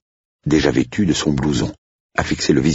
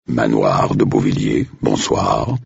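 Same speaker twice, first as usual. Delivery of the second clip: professional butler voice; 5 semitones lower, slower than usual. Acted. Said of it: "de sa voix la plus professionnelle".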